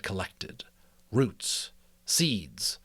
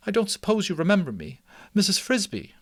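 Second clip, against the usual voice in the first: higher, eager mouse mother voice; a worried mouse mother, relieved to see him; 9 semitones higher, faster than usual. Acted. Mrs Frisbee voiced.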